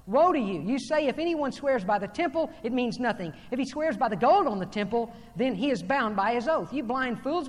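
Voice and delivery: emphatic pulpit denunciation; declaimed rebuke read from scripture; forceful scripture reading. Acted. Reads scripture woes forcefully.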